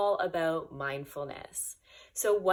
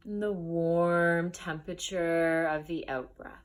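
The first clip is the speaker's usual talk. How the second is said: unhurried guided breathing, long pauses between phrases; guided meditation. Acted. Teacher guiding listeners into the breath, measured meditation voice. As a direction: lead listeners gently through noticing each breath.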